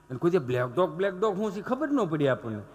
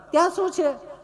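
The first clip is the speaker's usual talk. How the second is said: prissy lady; 10 semitones higher, 3 dB louder than usual. Retold or imitated. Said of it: "ચીપી ચીપીને બોલે".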